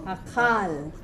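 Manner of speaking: "Achal" accented on its final syllable; demonstrating end stress in "Achal"; ultimate stress. Shown as a demonstration. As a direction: lean on "chal" in "Achal". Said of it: "The syllable is at the end".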